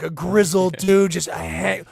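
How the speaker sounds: usual speaking voice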